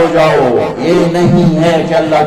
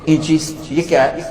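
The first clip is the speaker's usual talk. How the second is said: innocent question. Acted. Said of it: "بڑے بھول پن میں کہتے ہیں".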